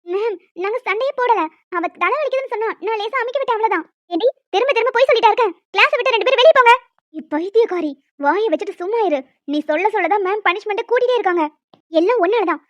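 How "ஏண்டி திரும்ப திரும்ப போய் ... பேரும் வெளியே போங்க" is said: angry order. Acted. Teacher orders both out.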